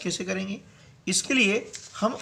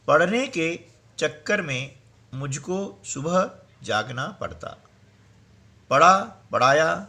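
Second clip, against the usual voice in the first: poem recitation. Acted. Scene: teacher reads the textbook poem to students, rhythmic recitation.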